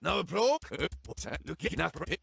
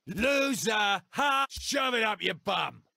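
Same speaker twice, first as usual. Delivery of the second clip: taunting shout; 3 semitones higher than usual. Acted.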